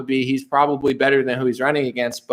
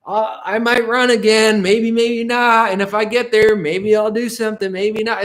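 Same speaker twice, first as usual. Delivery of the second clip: Trump impression; 6 semitones higher than usual. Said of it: "he's like".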